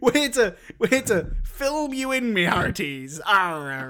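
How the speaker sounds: lightly voiced pirate with a closing arr; mock pirate. Co-host teasing with the podcast name, mock pirate. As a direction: play a hammed-up sea dog.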